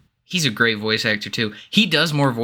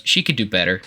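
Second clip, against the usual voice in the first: flat deadpan; 5 semitones lower, faster than usual. Retold or imitated. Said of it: "just very flat".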